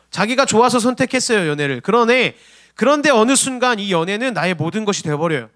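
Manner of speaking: ordinary talk, nothing marked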